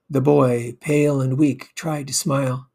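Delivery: usual speaking voice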